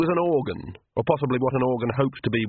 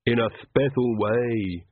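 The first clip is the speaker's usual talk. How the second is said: wistful; slower than usual. Acted. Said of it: "said Igor wistfully".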